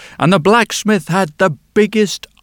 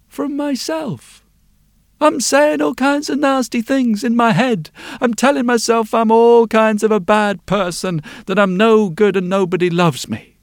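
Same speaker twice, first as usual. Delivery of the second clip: put-on little girl; 5 semitones higher than usual. Girl confesses her inner pain.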